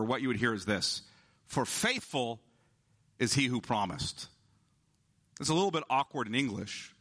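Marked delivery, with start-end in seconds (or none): 1.5-4.3 "faithful" put first and leaned on, then "is he who promised" falling away; stress on faithful. Shown as a demonstration. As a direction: open with "faithful" and give it the weight. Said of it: "it's emphatic in Greek".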